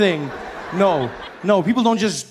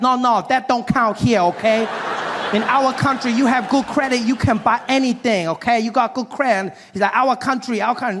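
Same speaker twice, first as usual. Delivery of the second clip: put-on higher, insistent accented dealer voice; Asian dealer impression; 5 semitones higher than usual. Dealer lecturing about credit in America, higher accented impression. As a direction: push the broken-English sales pitch, a bit higher. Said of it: "this Asian gentleman helping me".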